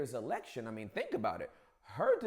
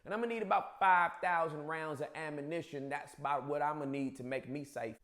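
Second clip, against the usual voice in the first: put-on a light Southern Bubba accent, a bit lower; 4 semitones lower, 3 dB quieter than usual. Gun-shop customer ordering ammo in a light Bubba accent. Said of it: "I just gave you the Bubba accent".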